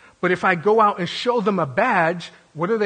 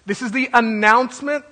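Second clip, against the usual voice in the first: higher-pitched herald's announcement; herald's cry; 4 semitones higher, 4 dB louder than usual. Acted. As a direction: call it out like a town crier. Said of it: "he came out and he said".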